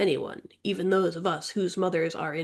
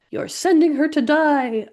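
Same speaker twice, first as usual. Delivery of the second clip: higher, louder furious outburst; thundering sister; 8 semitones higher, 6 dB louder than usual. A narrator's reading. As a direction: thunder it through the door. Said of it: "a familiar voice thunders".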